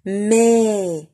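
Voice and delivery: MAIS held long on an open E. Shown as a demonstration. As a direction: say MAIS with a drawn-out "eh", letting it fall. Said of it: "je prononce ouvert". (MAIS prononcé avec un è bien ouvert)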